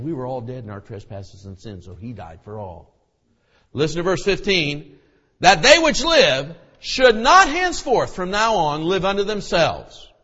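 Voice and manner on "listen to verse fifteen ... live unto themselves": much higher, much louder fiery preaching; preaching at full force. Acted. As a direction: thunder it from the pulpit.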